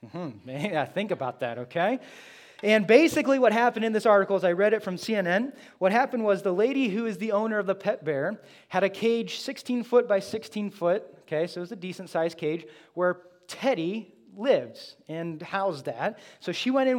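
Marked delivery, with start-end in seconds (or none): 2.6-11.0 raised, louder and quicker; building up the bear story; animated storytelling. Real, not acted. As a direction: tell it like breaking news, fired up. Excited telling of bear story.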